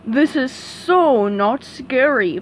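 slow, dismissive dopey drawl; Patrick voice. Acted. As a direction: brush it off unimpressed. Patrick inside the dark house.

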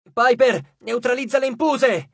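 high, loud battlefield command; shouted order. A narrator's reading. Frank sending Piper against the empousai, shouted order. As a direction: call to a fighter across the fray. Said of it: "gridò Frank".

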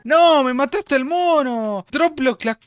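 loud, high raging curse; furious shout. Real, not acted. Gamer cursing a player who killed his monkey. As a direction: explode at whoever stole your kill.

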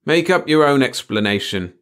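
disinterested. A narrator's reading. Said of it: "Kenzie answered disinterestedly".

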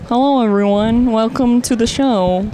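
lightly hammed TV reporter. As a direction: announce it like a TV host. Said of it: "this is my reporter voice".

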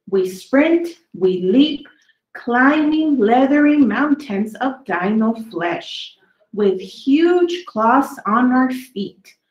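lively storybook read, slowed on the big words; reading to children. A narrator's reading. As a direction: read each dinosaur poem to the kids with relish. Reading dinosaur poems to children.

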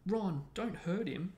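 high, loud, drawn-out plea; squeal. A narrator's reading. Hermione pleads with Ron for her cat, squealing. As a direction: squeal it in protest. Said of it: "squealed Hermione".

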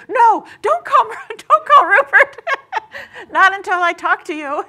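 high, loud, laughing no-no-no; blurting it out through laughter to stop her; laughing panicked retraction. Retold or imitated. Calling her friend back in a panic, laughing and loud. Frantic retold callback to friend.

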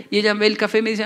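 normal talking voice

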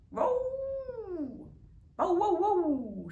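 high, loud, slow barks; slow dog barking. A narrator's reading. Bitzer Maloney barks slowly back at the cat, high and loud. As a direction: drag out each bark. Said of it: "said Blitzer Mac".

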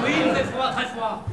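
high, loud mock Québécois; boisterous put-on Québécois accent. Shown as a demonstration. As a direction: join in with a laughing Québécois imitation. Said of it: "c'est l'accent québécois".

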